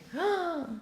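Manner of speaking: sharp, acted gasp of shock. Boatman threatened with drowning, shocked gasp.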